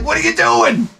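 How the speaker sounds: a hint of a puzzled cripple. The guy asking the idiot what he's doing, lightly baffled. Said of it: "the guy's like".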